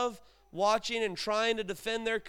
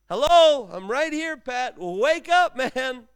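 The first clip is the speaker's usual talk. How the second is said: wake-up shout; 3 semitones higher, 10 dB louder than usual. Acted. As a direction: yell at him to wake up right now. Jesus voiced shouting to wake Pat.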